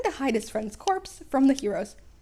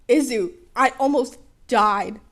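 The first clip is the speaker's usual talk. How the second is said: louder, slow grumpy retort; lightly voiced Bakugo; 8 dB louder, slower than usual. Bakugo grumbles at Midoriya about almost dying. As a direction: grumble it at your friend.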